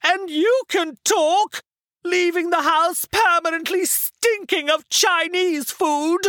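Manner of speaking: high, slow plummy indignation; huffy theatrical accusation; thoroughly put out. A narrator's reading. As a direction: retort like an offended camp actor. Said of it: "Reggie looked thoroughly put out".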